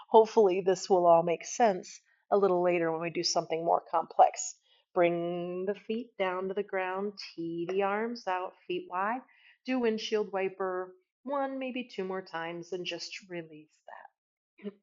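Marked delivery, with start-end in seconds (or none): 4.9-14.7 slow, unhurried cueing that gets softer; slow right down and let it fade softer; easing into release. Real, not acted. Yoga teacher winding students down to release, slow and softening.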